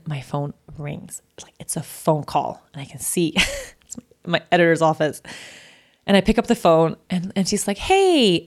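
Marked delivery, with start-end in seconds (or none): 0.0-2.6 whispered, slow, holding the breath; hushed storyteller whisper; hushed suspense. Real, not acted. Suspense as the phone rings. 7.8-8.4 a high, lifted hey; cheerful high hey from the editor; bright greeting. Retold or imitated. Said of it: "I can't tell by her voice at all".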